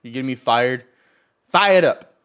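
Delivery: revved up, building to a loud burst; emphatic hype, punching the last words loud; fired up. Real, not acted. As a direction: pump yourself up out loud. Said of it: "Get me fired up this morning".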